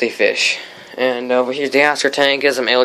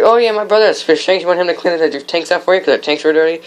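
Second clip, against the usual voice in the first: sister's quote in a higher mock voice; lightly voiced sister, pitched up; imitating sister; 6 semitones higher than usual. Sister offering her brother to the teacher, mock higher voice. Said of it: "she's like".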